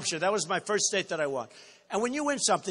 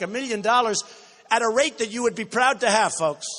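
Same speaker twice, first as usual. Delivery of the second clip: ordinary talk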